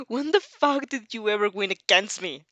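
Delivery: a mild mock outburst; only a hint of a blowup; exploding. Katsuki snapping back at rival, understated outburst. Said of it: "He practically exploded".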